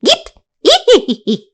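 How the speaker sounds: very high monkey shrieks; flying monkeys screeching over the scarecrow. Acted.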